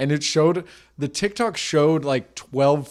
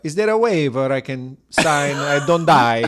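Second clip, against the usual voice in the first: comic put-on Italian accent. Painter asking how to sign and not die, Italian accent. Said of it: "some Italian guy, like".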